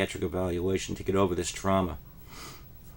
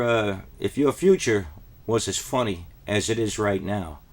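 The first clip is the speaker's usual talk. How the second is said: angry teacher threat; 4 dB louder than usual. Retold or imitated. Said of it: "she said".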